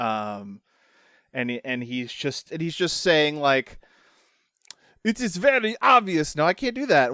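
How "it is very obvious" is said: put-on very high, shoddy, awful Transylvanian vampire accent. Speaking as a character who puts on a very awful Transylvania Dracula accent. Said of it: "very very awful Transylvania Dracula like just shitty accent".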